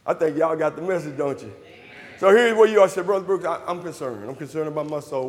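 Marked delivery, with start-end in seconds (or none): 3.0-5.3 low, hushed confession; concerned seeker. Acted. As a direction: voice a humble seeker, much softer and lower. Voices a worried seeker coming forward.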